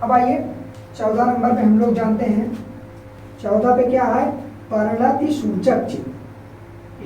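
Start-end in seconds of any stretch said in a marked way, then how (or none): 4.7-7.0 slow term repeat. Shown as a demonstration. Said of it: "teacher spells out term".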